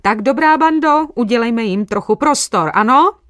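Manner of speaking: high, loud, shooing the crowd; bossy housewife. A narrator's reading. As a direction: clear them off like with a broom. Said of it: "jako energická hospodyňka s koštětem".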